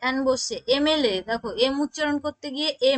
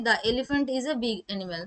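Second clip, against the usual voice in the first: slow example read; 2 semitones lower, 3 dB quieter, much slower than usual. Shown as a demonstration. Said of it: "example কি বলেছি".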